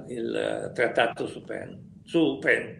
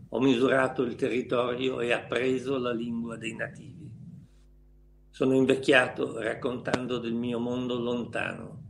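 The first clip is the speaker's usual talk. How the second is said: theatrical swelling poetry reading; 2 semitones lower than usual. Acted. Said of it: "Devi recitarmi una poesia".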